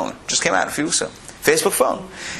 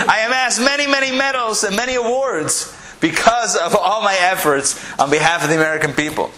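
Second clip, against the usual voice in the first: higher, lightly pompous dog voice; boastful talking dog; 5 semitones higher than usual. Acted. Talking dog telling a stranger of its medals, mildly grandiose. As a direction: play a decorated dog recounting its honours.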